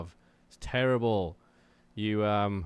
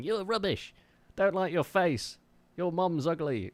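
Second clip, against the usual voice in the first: higher-pitched mock insults; mock online heckler; 8 semitones higher, slower than usual. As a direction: imitate a petty commenter's jeering. Imitating petty commenters' insults.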